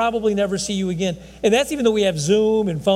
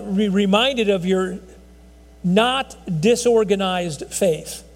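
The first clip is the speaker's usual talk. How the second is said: slow, deliberate rewording; slower than usual. Shown as a demonstration. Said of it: "if you read it in Greek".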